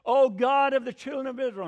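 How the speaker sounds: loud, grand prayer opening; eloquent preacher prayer. Retold or imitated. Preacher leading prayer during a tornado, grand intoning.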